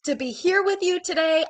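stuffy allergy nose; nasal voice. Real, not acted. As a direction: talk through a blocked nose. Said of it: "I know I sound, um, nasally".

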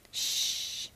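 soft voiceless shush; long, quiet "shh"; hissed shush. A narrator's reading. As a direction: hush them with a hiss. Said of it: "Buzz hissed".

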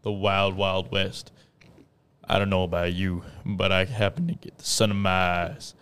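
put-on cowboy accent. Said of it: "gotta use cowboy accents".

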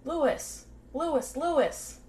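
high-pitched, restrained imitation of screaming; mild retold scream. Annette recognizes her attacker in the moonlight, mildly acted scream. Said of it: "And then she screams out".

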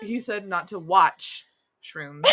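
slowed way down, careful. Real, not acted. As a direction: say each word slowly and deliberately. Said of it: "No. Not, fuck, I said it again".

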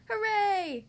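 high, loud hooray; cheering. A narrator's reading. Peppa seeing the muddiest puddles ever, high loud cheer. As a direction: cheer out with delight. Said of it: "cheered Peppa".

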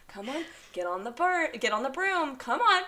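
soft gentle coaxing. Retold or imitated. Parents easing a bird onto a broom, softly coaxing. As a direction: coax it onto the broom tenderly.

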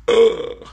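short, high, loud grunt; abrupt throaty noise; groan. Real, not acted. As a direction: let out a sudden loud ugh. Interjected groan while telling story.

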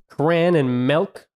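cran and milk drawn out slowly; mimicked mispronunciations. Mocking friend's pronunciations.

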